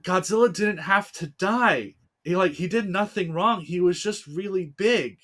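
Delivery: mildly hammed-up crying kid pleading; imitating a crying child. Crying boy defends Godzilla to parents, mock tearful. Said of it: "crying even more 'cause I was like".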